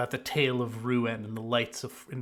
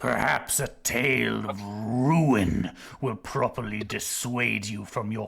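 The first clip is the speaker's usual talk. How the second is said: snake voice. Acted. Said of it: "be doing the snake impression the whole time".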